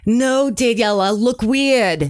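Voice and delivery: put-on light New York dad accent, gruff refusal; a hint of a New York accent. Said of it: "in his New York accent".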